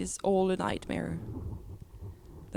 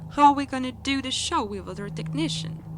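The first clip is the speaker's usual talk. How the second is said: higher-pitched, lightly voiced fretting teacher; mock teacher; 6 semitones higher than usual. Teacher asking about the show with a technician missing, mock teacher voice. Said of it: "this teacher whose third thought was".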